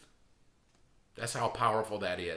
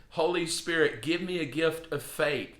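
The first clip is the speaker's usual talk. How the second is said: earnest prayer; 4 semitones higher than usual. Shown as a demonstration. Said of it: "what a great prayer to pray".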